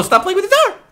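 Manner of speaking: high-pitched laughing shout; giggly high call to quit messing with the door; laughing, high yell. Real, not acted. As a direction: laugh while yelling at them to stop.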